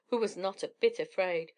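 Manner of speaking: usual speaking voice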